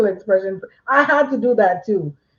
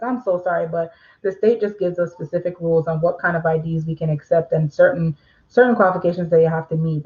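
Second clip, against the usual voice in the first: polite and professional; 5 semitones lower than usual. Shown as a demonstration. Notary calmly explaining the ID rules to a customer. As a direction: decline gently and offer another way. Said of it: "See how I'm saying it?".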